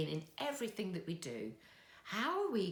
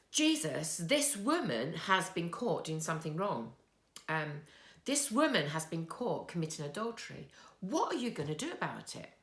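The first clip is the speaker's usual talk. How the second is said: louder, pushy accusation hurled at Jesus; accusing Pharisee; 4 dB louder than usual. Retold or imitated. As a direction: demand an answer, forceful and indignant. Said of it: "and they said".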